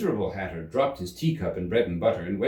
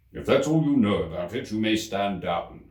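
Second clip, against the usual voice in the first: dry King. Acted. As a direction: dismiss him drily.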